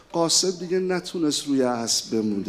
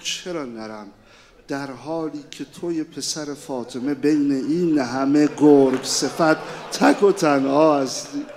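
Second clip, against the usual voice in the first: rising protest; 4 semitones lower, 4 dB louder than usual. Acted. Boy protests to his uncle.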